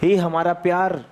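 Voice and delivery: lightly acted lovelorn plea, low and slow; a hint of a molecule begging its beloved; pleading molecules. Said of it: "नीचे वाले surface के molecules कह रहे हैं". (हल्के अभिनय में प्यार भरी गुहार)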